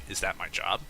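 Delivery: no snootiness, just a dry plain question; retelling what the customer asked the cashier, matter-of-fact; flat matter-of-fact statement. Retold or imitated. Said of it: "as a matter of fact statement".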